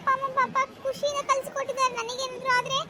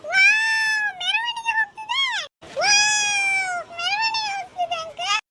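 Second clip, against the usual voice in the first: higher, louder delighted wow; excited wow; 5 semitones higher, 3 dB louder, slower than usual. Acted. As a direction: marvel at the procession going by. Sees a procession passing.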